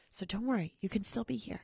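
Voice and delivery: low, soft comforting tone; gentle reassurance. Real, not acted. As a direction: softly soothe a worried listener. Comforting a sad departing caller.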